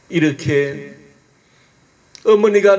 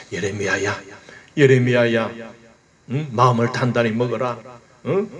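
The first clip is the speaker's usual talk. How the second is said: God soothing; 2 semitones lower than usual. Acted. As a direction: comfort Jeremiah like a calming father. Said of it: "하나님께서 예레미야를 지금 달래고 있습니다". (달래듯 부드러운 하나님의 목소리)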